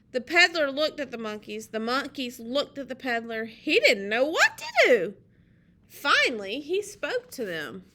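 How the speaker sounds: put-on loud, animated storytelling to children; lively picture-book narration; story read-aloud. A narrator's reading. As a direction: read it out big, landing on each key word.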